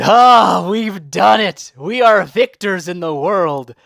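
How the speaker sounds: slow, drawn-out triumphant ah; slow hammed-up victory; mock triumph. Real, not acted. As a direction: savour the win slowly. Victory cry.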